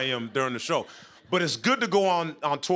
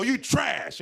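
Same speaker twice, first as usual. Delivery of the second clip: high-pitched jeer; heckling insult; 7 semitones higher than usual. Retold or imitated. Dude's acted heckle.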